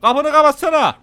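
loud, irritated yell at a passenger; angry yell. Real, not acted. Yelling at passenger about door.

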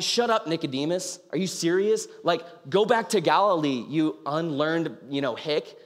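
mildly mocking, scornful retort; lightly imitating annoyed Pharisees; angry dismissal. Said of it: "they're angry at him".

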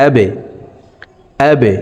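আবে with the b pushed down and bounced; downward qalqalah. Shown as a demonstration. Teacher demonstrating qalqalah, আবে with b bounced downward. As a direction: release the b of আবে in a short downward echo. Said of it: "নিচের দিকে ধাবিত করে কলকলাহ করে উচ্চারণ করব".

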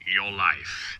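slow, low and ominous; slow stranger's voice. Acted. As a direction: lay each word down slowly. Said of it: "said the stranger's voice slowly".

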